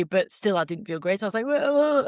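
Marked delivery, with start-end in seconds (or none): 1.5-2.0 whoa. Retold or imitated. Exhausted, reacting on the hill.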